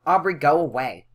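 understated acted annoyance; irritated. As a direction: voice an annoyed character shooing someone off. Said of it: "be really irritated".

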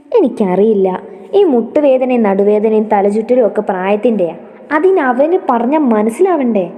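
a touch of complaint, swinging intonation; lightly voiced grumbling mother. Elderly mother complaining about her son's whim, mildly exasperated. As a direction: grumble fondly, quickening at the end.

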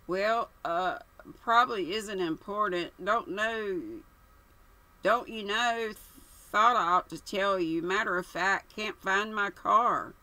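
hesitant, dithering toff; stammering young man. Acted. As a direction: fumble for words nervously. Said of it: "Stammering a good deal".

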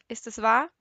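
loud, pleading question; desperate shout down the phone; anguished demand. Acted. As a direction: force the question out in panic. Father anguished on night phone call.

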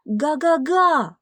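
a loud, high, slow honk; calling after. Acted. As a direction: call after the car as it goes. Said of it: "крикнув йому навздогін".

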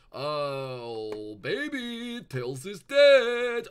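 hammed-up grief; mock lament. Sonic mourning Tails in an exaggerated wail.

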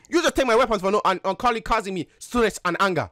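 put-on African accent. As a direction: speak in a mock African accent. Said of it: "so you don't have an African accent".

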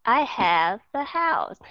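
slow "I have a house", V flowing into "a"; linked V. Shown as a demonstration. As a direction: join "have a" smoothly, unhurried. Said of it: "âm V nó nối liền". ("have a" nối liền âm V, đọc chậm)

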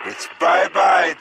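laugh, then a slow triumphant bye-bye; gloating farewell to the enemy; gleeful gloat. Acted. Gloating about defeating Dark Ether.

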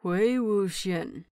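slow, strained name through clenched teeth; gritted out. Acted. Lan Qiren stopping Wei Wuxian at the door, gritted out. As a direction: force the name out past tight jaws. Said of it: "the man grits out".

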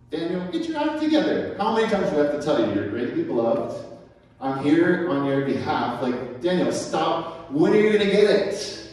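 high, fast, mock-exasperated scolding; exasperated heaven. Heaven to trembling Daniel, exasperated scolding. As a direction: play heaven fed up but fond.

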